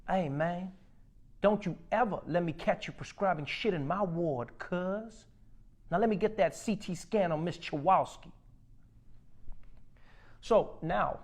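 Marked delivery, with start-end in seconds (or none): 0.1-8.3 lightly voiced gang-member doctor; a hint of street tough running a ward; gangster doctor. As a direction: talk like a gangster on rounds, lightly. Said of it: "being run by the Crips and the Bloods".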